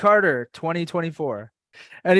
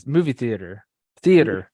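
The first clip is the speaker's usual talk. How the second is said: mumbled Florida accent. Shown as a demonstration. Showing how Floridians say it, mumbled Florida accent. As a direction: run "theater" together in a Florida accent. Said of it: "Florida accent, we just, like, mumble it all together".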